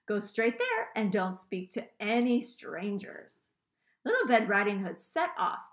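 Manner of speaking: teacher reading a story to her class; lively read-aloud for young pupils; story narration. A narrator's reading. Teacher reads a fairy tale to her pupils, lively storytelling.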